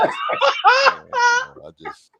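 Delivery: depressed. Retold or imitated. Friend retells depressed player's phone call, mock depressed. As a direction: imitate a dejected buddy confessing his slump. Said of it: "he was depressed".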